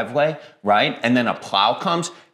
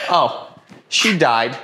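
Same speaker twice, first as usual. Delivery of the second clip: grandma voice; 2 semitones higher, 4 dB louder, much slower than usual. Retold or imitated. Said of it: "like my grandma telling a story".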